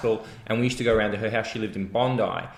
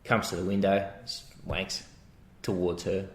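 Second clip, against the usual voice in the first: spaced-out mum; 2 semitones lower, 6 dB quieter than usual. Retold or imitated. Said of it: "And she goes".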